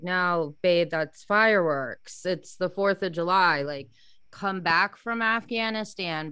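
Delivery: slow, stretched-out grounding words; retold firm reassurance. Wife to husband in a flashback, firmly reassuring. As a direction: talk someone back to the present, slowly.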